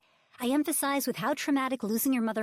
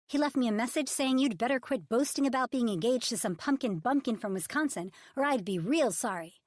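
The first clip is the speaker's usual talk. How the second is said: higher, louder sarcastic retort; indignant argument; 5 semitones higher, 5 dB louder than usual. Acted. Publicist throwing the threats back at Ridge, loud and indignant.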